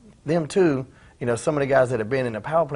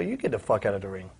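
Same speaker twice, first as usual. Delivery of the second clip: low, quiet defiant comeback; cold comeback; 3 semitones lower, 4 dB quieter than usual. Retold or imitated. Wrestler firing the threat back at the trainer, low and defiant. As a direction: throw his own words back at him, calm and hard. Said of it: "Like that, you know".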